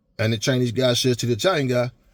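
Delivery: plain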